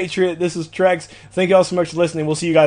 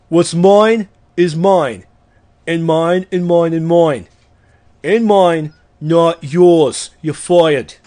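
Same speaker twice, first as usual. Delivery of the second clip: slow, emphatic reading, a bit louder, lightly done; Donald Trump; 2 semitones higher, 3 dB louder, slower than usual. Retold or imitated. Podcaster reciting the greedy oath as a mild boastful tycoon. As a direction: lean on each mine like a boastful tycoon. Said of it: "Now do a Donald Trump impression".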